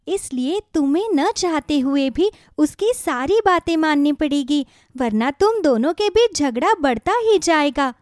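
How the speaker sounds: a gentle talking radish giving advice; magic radish. Acted. Magic radish gently advising worried farmer Kishan, kindly.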